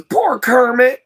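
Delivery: put-on a childlike pang of pity for the frog; pitying thought. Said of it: "the first thing that popped in my head was".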